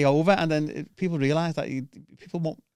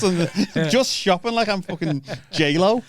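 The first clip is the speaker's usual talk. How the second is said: laughing; much slower than usual. Real, not acted. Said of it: "I'm like that".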